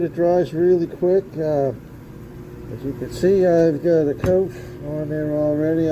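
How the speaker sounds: muffled through a respirator mask; talking through a respirator. Real, not acted. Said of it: "why I sound kinda muffled".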